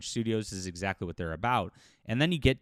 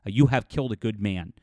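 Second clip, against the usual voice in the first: firm, fed-up denunciation; real anger. Real, not acted. Commentator calling out game developers to viewers, angry and resolute. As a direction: lay down the law with controlled outrage. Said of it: "especially when I'm mad".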